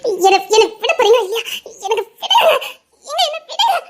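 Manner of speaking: nervous protest as he holds her; agitated protest. Acted. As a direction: push back, frantic and half laughing. Woman struggling to get free.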